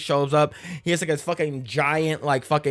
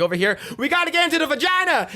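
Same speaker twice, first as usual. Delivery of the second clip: excited squeaky urging; 9 semitones higher, faster than usual. Retold or imitated. Voicing character urging others.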